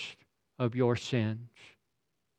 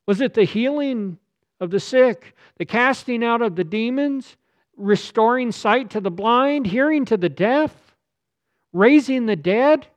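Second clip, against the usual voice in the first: higher and louder, building to a cry; impassioned pulpit outcry; rising preaching shout; 9 semitones higher, 5 dB louder than usual. Real, not acted. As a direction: thunder it out, line by line.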